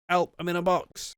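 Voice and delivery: ventriloquist's penis voice pleading from inside a box; high little puppet voice. Retold or imitated. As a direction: call for help as a trapped dummy. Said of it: "it's his penis talking".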